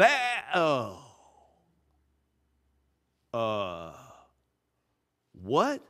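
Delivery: hammed-up deflation; deflated. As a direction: air let out of the crowd. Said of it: "I'll call it deflation".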